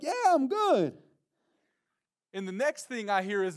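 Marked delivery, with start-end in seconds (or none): 0.0-1.0 loud, very high call back; shouted reassurance. Retold or imitated. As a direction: holler back that all is fine. Calls reply to distant friend.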